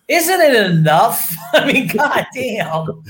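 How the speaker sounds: slow, laughing goddamn; laughing it off, worn out; laughing exasperation. Real, not acted. Cohost laughing at the teasing, exasperated.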